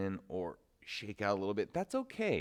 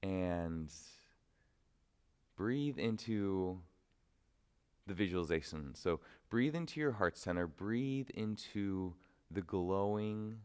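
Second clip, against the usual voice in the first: guided meditation. Acted. Teacher guiding students to visualize inner light, unhurried meditation voice. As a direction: draw out the images, leaving room to breathe.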